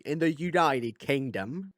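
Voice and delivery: slow, put-on bad British accent; deliberately poor British accent, drawn out; lousy UK accent. Shown as a demonstration. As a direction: say it like a clumsy Brit impression. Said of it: "That was a lousy U K accent".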